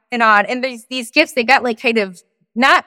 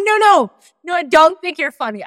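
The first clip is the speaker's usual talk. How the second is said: higher-pitched retold protest; insistent protest; 5 semitones higher than usual. Retelling her answer to his proposal, insistent protest. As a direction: jump in with a mock-urgent denial.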